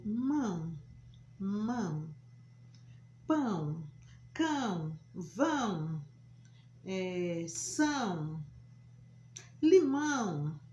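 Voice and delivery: mão, pão, cão with a nasal ão. Shown as a demonstration. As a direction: let the ão ring through the nose. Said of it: "como se o som saísse pelo nariz". (ão nasal, pelo nariz)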